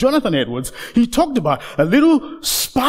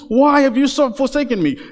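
raised preacher's retelling of a cry; 3 semitones higher than usual. Retold or imitated. Preacher repeats Jesus' words from the cross, crying out. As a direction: call it out higher, mildly imitating anguish. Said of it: "he's crying on the cross".

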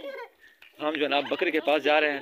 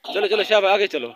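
calling out; 6 semitones higher, 6 dB louder than usual. Real, not acted. Herding kids forward.

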